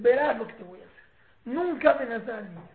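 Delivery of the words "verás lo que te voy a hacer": put-on louder warning to a child; hint of a threatening parent; mild mock threat. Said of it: "a que le digas".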